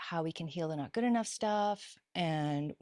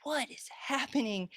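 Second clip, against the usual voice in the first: bewildered; 7 semitones higher than usual. Retold or imitated. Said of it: "And I'm like".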